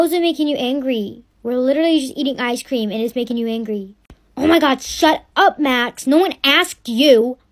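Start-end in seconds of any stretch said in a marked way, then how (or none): 4.4-7.4 snapping at brother. Acted.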